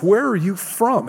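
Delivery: a hint of a panicked governor asking; anxious, pressing question; frantic Pilate. Preacher voicing a frantic Pilate to Jesus. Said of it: "Pilate begins to get frantic".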